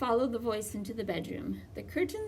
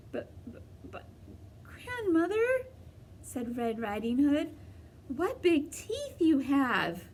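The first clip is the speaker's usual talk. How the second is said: frightened; 5 semitones higher than usual. Acted. Frightened girl sees the teeth.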